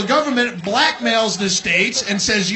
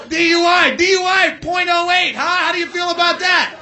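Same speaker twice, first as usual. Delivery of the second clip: mocking shout; 7 semitones higher, 4 dB louder than usual. Mocking drunk-driving law.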